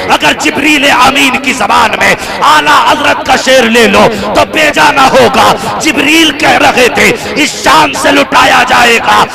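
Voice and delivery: loud, ringing sermon delivery, slowing on the verse; full-force preaching. Acted. Preacher stirring the gathering, loud and ringing. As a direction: preach it out, rising to a shout.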